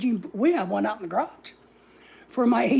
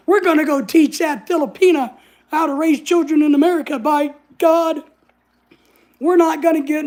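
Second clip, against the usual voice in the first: louder, higher mock indignation; mock self-righteous; 4 semitones higher, 4 dB louder than usual. Busybodies planning to scold Lorelai, mock outrage.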